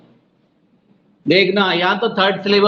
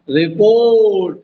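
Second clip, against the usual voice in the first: रिपोर्ट with पोर्ट stretched long; slow, emphatic रिपोर्ट; stressed second syllable; 3 dB louder, much slower than usual. Shown as a demonstration. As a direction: open the mouth wide on पो in रिपोर्ट. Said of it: "इसमें मुंह ऊपर खोलना पड़ेगा".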